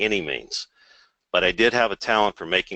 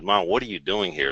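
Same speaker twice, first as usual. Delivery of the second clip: mildly surprised, higher-pitched question; 8 semitones higher than usual. Retold or imitated. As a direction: retell it with a lift of surprise. Retold surprise at seeing his mother.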